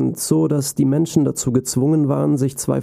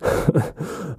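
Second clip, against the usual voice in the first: monster laugh; 4 semitones higher than usual. A narrator's reading. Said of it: "Das Sockenmonster begann wieder zu lachen".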